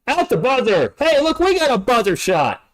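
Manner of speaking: John Travolta. Real, not acted. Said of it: "I sound like John Travolta".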